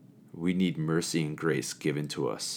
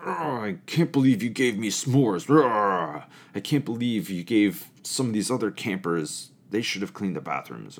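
higher, louder imitated complaint; mock angry whine; 4 semitones higher, 4 dB louder than usual. A camper resenting the counselor's gift, in a mocking aggrieved voice. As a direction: parody an ungrateful camper. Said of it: "we even get angry when grace happens".

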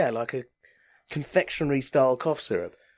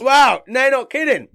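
shocked; 10 semitones higher, 8 dB louder than usual. Real, not acted. Tasting extremely sour candy.

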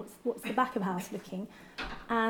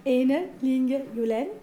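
put-on slow, careful Danish accent on a name; 6 dB louder, slower than usual. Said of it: "I'm gonna put on my best Danish accent".

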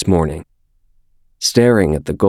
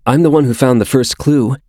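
a touch louder, fierce claim; insisting fiercely; 6 semitones higher, 3 dB louder, faster than usual. A narrator's reading. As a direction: stake your claim hard. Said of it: "Jameson insisted fiercely".

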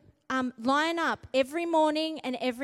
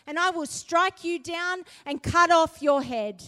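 bold declaration; 3 semitones higher than usual. Retold or imitated. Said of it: "Then David said to the Philistine".

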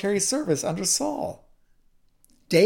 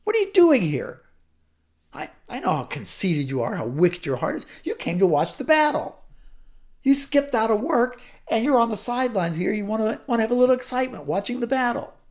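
angry big brother; 4 semitones higher than usual. Acted. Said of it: "he burned with anger".

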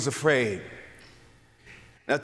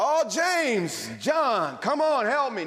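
mock crying out; 6 semitones higher, much slower than usual. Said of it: "he cried out".

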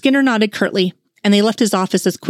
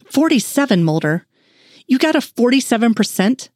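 rising, disbelieving question about the score; incredulous; 4 semitones higher than usual. Acted. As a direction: she can't believe the number she's reading. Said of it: "she said incredulously".

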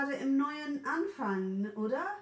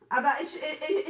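normal talking voice

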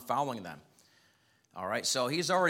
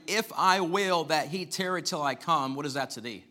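sarcastic; 5 semitones higher, 5 dB louder than usual. Acted. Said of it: "with a little bit of sarcasm".

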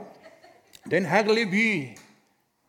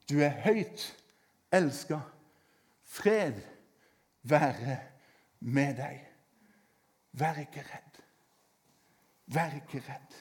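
much softer, lower, near hush; soft blessing; 6 semitones lower, 6 dB quieter, slower than usual. Acted. Preacher comforting listeners, soft hushed blessing. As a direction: speak it gently as a blessing. Quiet blessing after loud verses.

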